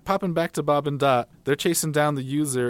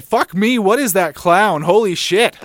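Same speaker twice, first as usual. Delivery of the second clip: panicking gamer; 6 semitones higher, 9 dB louder than usual. Retold or imitated. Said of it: "I jumped out of my chair".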